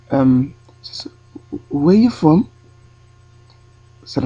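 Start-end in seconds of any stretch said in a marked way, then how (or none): 1.7-2.5 higher, probing question in a put-on European accent. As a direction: ask where he's from in a mock Eastern European accent. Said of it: "try and do an accent".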